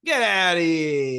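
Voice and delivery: drawn-out, loud send-off; mock yell. Echoing the teacher throwing a kid out, drawn-out mock yell. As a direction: holler it slowly in mock outrage.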